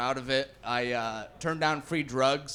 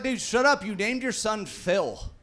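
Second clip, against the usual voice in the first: higher-pitched comic protest; mock indignant retort; 5 semitones higher than usual. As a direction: fire back at a teasing buddy, pitched up. Acted retort to teasing buddy.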